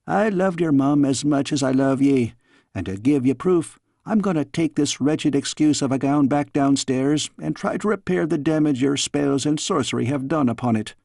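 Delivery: lightly voiced Scots nanny, teasing scold; a fond old nurse chiding in a Scots lilt; a hint of a Scottish nursemaid. Nanny figure speaks.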